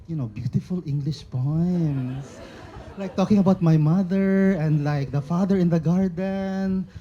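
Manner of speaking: amused disbelief at her own poems, laughing. Real, not acted. A poet remembering her poems in English, laughing.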